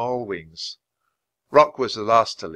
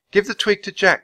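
put-on high-pitched girl's voice; high, earnest request; urging girl; 10 semitones higher, 4 dB louder than usual. A narrator's reading. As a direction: coax the bird to hand it over. Annie urges the bird.

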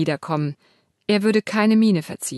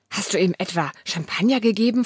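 appalled. Acted. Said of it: "fragt Katharina entsetzt".

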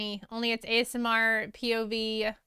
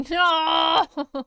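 laughing no; 5 semitones higher, 6 dB louder than usual. Real, not acted. Laughing mock protest at chat.

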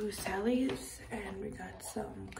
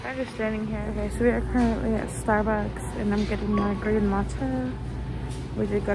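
muffled behind face covering; speaking through cloth mask; 7 dB louder than usual. Real, not acted. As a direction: mouth covered by fabric. Seen 1: Patterned cloth mask covers mouth and nose throughout; no mask in R frames.

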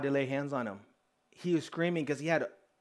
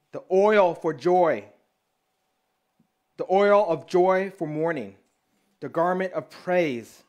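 scripture reading. Acted. Preacher reads Isaiah over the congregation, proclaiming. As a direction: proclaim each promise like a blessing.

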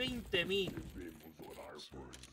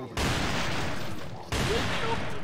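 high, very slow airy "Me vuelve loco"; drawn-out delight; 9 dB louder, much slower than usual. Real, not acted. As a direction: stretch "loco" up in a breathy swoon. Repeats praise, drawn out.

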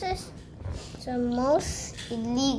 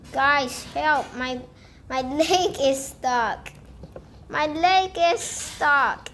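mock cry for help; 4 dB louder, slower than usual. Character stuck, calling for help.

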